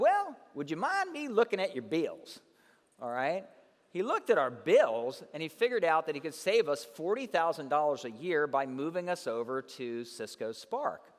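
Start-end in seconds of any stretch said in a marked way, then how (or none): 0.0-2.4 put-on real Southern accent, high and swooping. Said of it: "he got a Southern accent, real Southern".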